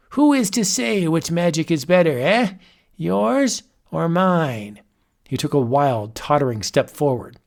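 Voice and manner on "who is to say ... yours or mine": raised, amused wizard voice; a mad sorcerer toying with his guest; chuckling old warlock. Acted. Wizard character speaks.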